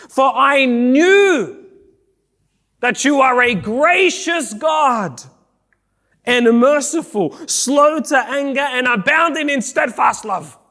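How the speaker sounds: rising into a shouted complaint at God; Jonah's angry prayer. Acted. Preacher voicing Jonah's angry prayer.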